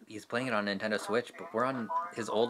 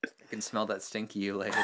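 whisper; 5 dB quieter than usual. Real, not acted. Whispered line.

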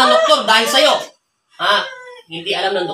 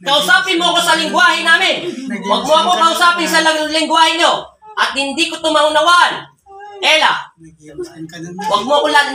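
forceful command; 3 semitones higher than usual. Real, not acted. Exorcist demands the spirit speak.

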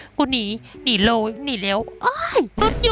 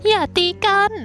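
shrill cry to stop; 7 semitones higher than usual. Pretend. Breaking up a fight in game.

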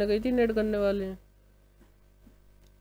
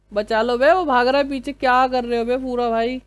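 louder, raised urgent yell to a teammate; urgent callout; 3 semitones higher, 4 dB louder than usual. Real, not acted. Gamer urging his squadmate to chase the enemy, urgent callout. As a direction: push the words out, pressing for help.

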